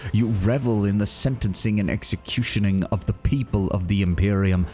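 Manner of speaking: a lightly voiced zealot preaching repentance; Savani's rebuke. Savani accuses Korda.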